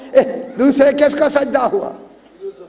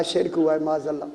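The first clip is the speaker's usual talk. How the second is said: hushed grave voice; 8 semitones lower, 9 dB quieter, faster than usual. Acted. Voicing God's verdict.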